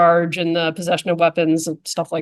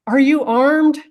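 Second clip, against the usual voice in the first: higher, called-out "Are you armed?"; mock yelled question; 7 semitones higher, slower than usual. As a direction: play a trooper shouting across the water. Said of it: "the trooper's yelling back".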